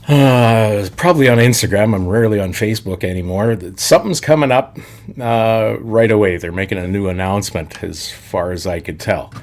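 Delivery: smooth sponsor read voice; radio announcer voice. Acted. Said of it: "That was my best radio voice guy".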